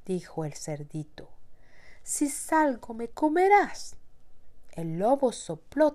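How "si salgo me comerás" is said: high squeaky piglet. Acted. Piglet refuses the wolf.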